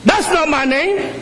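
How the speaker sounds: put-on a boy telling his grandfather the right way to say his name; child's voice. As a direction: correct the grown-up patiently. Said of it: "He goes".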